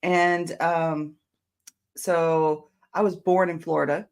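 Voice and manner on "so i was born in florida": frog in throat. Real, not acted. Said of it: "I'm getting a little frog in my throat".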